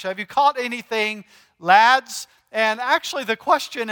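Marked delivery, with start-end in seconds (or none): 0.0-2.3 a hint of Scottish, calling out lads; Scottish accent call; light Scottish accent. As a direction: repeat it with a touch of Scottish. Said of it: "That sounds so Scottish".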